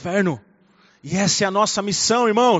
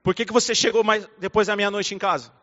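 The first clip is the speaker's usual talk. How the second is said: stern scolding. Shown as a demonstration. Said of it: "quando eu vou corrigir a Nicole".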